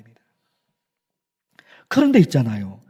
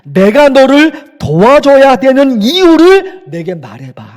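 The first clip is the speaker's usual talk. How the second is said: a firmer, louder voice of God pressing the question; God's stern challenge; 4 dB louder than usual. Retold or imitated. Pastor voicing God challenging the desperate believer, stern and loud. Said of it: "하나님이 그러신단 말입니다".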